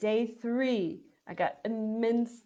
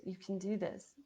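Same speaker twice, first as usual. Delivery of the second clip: hushed, softer coaxing; soft encouragement; 8 dB quieter than usual. Retold or imitated. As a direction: murmur it like a voice in her ear. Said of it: "whispering in my ears".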